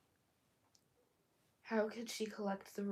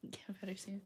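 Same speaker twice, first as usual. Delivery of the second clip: whispering; 4 dB quieter than usual. Real, not acted. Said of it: "My eye's acting up now".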